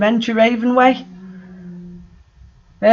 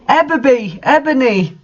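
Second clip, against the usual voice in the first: evil Darth Vader; 6 semitones higher than usual. A narrator's reading. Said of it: "Darth Vader said evilly in his raspy voice".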